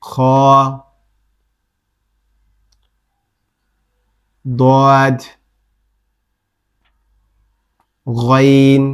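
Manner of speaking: each letter from খ to য held long and heavy; slow recited drill of heavy Arabic letters, খ to য, pauses between; thick letter drill. Shown as a demonstration. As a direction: raise the tongue, thicken খ, দদ, গইন, সদ, ত, কফ, য. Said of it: "এবং মোটা আওয়াজ হবে".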